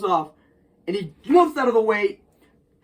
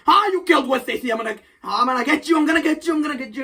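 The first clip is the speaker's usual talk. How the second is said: fast, raised mock rant; ranting Jonah; 5 semitones higher, much faster than usual. Jonah storming in at Spider-Man, fast mock rant. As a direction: blurt threats in a hurry.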